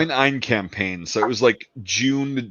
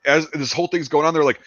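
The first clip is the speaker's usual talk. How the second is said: panicked French; 5 semitones higher than usual. Retold or imitated. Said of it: "the French are like".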